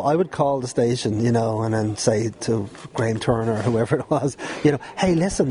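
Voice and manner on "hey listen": higher-pitched squeaky youngster asking. Retold or imitated. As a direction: pipe up in your squeaky kid voice. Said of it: "in my squeaky voice".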